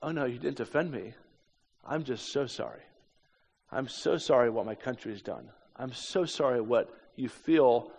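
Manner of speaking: subdued, gently sorrowful apology; retold tearful apology. Floyd answers his hostess through tears, mildly tearful apology. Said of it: "through his tears, said".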